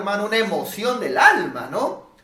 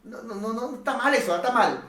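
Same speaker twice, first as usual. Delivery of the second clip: doubting inner voice; 3 semitones higher, faster than usual. Retold or imitated. Logic scoffing at the pastor, mock-incredulous. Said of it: "la lógica te va a decir".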